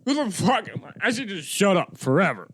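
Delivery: high, wailing self-pity; mock depressed despair. Doubting anyone would pay him, high mock despair. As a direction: wail it as a comic breakdown. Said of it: "I'm getting all depressed".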